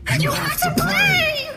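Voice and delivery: high grinding machine shout; furious mechanical roar. Acted. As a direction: bellow like a raging machine. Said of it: "mechanical edge grinding with sudden fury".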